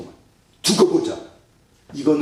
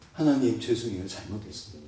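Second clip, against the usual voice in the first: humble prayer; 2 semitones lower, 8 dB quieter than usual. Acted. Acted repentant prayer to God.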